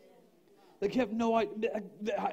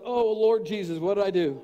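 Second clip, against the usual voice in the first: laughing mock panic; 2 semitones higher, 8 dB louder than usual. Panicked retold thought.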